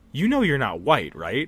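play-acted dead-serious, heartfelt, earnest, sincere tone. Speaker retells a woman stopping everything to say this: retelling a sincere remark. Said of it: "she looks at me with all sincerity and stops everything".

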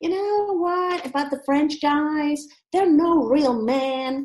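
put-on full, high-pitched American accent. Retelling how they impersonated an american talking about the french: american accent. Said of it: "with a real American accent".

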